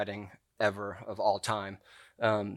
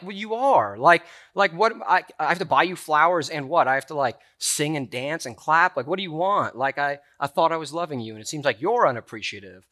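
louder, higher, exasperated; husband snapping back at wife mid-argument; retold angry outburst; 4 semitones higher, 5 dB louder than usual. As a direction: replay the fight, frustrated. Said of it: "I was so upset 'cause I'm like".

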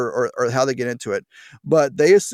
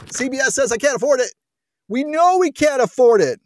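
higher, louder mock indignation; sarcastic; 9 semitones higher, 3 dB louder than usual. Real, not acted. Host mocking the report, higher and louder. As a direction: rub in the obvious.

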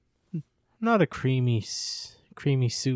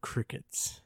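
whisper; 8 dB quieter than usual. Pretend. Awkward silence joke.

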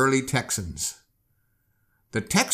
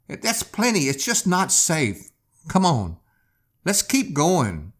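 lightly voiced wife, higher and pleading; worried wife; 5 semitones higher, 3 dB louder than usual. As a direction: gently beg him not to go back. Wife begs husband not to swim.

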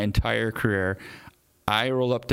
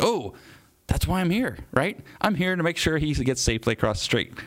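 higher-pitched retold "oh, I get it"; lightly acted moment of it clicking; sudden realization; 6 semitones higher than usual. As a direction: act out the penny dropping, pitch lifted. Acts out sudden realization to himself.

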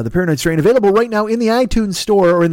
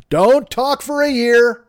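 mock solemn decree; 8 semitones higher, 3 dB louder, slower than usual. Monk rules, high drawn out.

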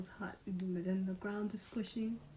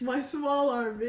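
laughing; 6 dB louder, slower than usual. Acted. Guardian voice, laughing.

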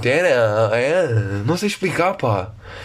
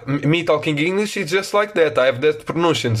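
bad Portuguese English. Shown as a demonstration. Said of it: "tiveram bem uma noção do que é um inglês".

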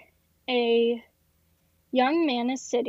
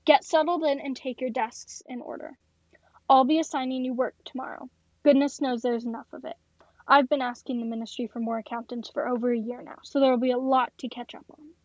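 gum-popping office boss; faster than usual. Acted. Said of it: "popping her gum".

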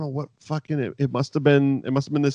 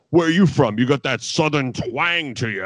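threatened needling; 2 semitones higher than usual. Retold or imitated. Threatened Taz starts in on his new rival over his accent, mock needling. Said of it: "immediately Taz started in with the".

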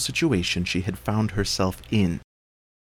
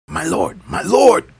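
high, loud panicked call; crying out; 10 semitones higher, 6 dB louder than usual. A narrator's reading. Jackal running to the Elephant King, panicked cry. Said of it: "cried the jackal".

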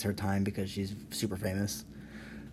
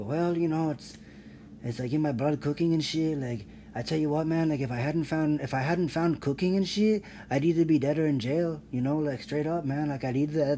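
lightly voiced tough-guy chef, pitched higher; contestant chef; 4 semitones higher than usual. Chef telling judges why he wants to win, mock tough-guy voice. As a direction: play the streetwise chef swearing cooking saved him. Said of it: "He'll go".

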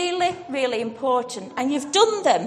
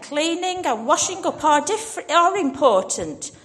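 gentle sigh; 2 semitones higher, 4 dB louder than usual. Acted. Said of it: "sighed Jesus".

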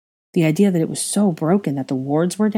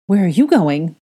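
panicked; 6 dB louder than usual. Acted. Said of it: "Teddy panicked".

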